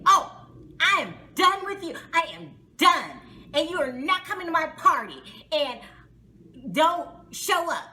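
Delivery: mock outburst with hard emphasis; indignant retort. Reginae retold telling Brandon he's uninvited, mock indignant. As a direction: act out an indignant storm-off, punching each phrase. Acting out angry exit from table.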